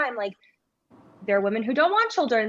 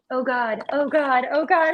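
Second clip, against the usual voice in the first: mock panic; 3 semitones higher than usual. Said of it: "and she's like".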